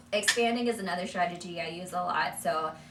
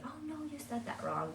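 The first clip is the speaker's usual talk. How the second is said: correcting; 9 semitones higher, 6 dB quieter than usual. Shown as a demonstration. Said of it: "We don't ever wanna say".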